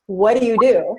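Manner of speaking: brisk, pushing for an answer; pressing question. Retold or imitated. Coach on stage pressing Stephanie, pushing for an answer. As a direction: fire the question at her again. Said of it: "Okay, try that again".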